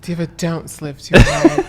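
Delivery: slow, drawn-out diva warning; playful American character voice; American diva host. Acted. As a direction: stretch it out as a mock-sassy American host. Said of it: "Or if I, or the British one".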